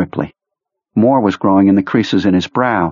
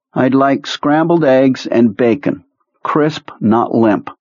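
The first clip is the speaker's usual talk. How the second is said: slow, careful, alien orderer; 5 semitones higher, slower than usual. Acted. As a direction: say it slowly, like learning words. Mister Gray voice.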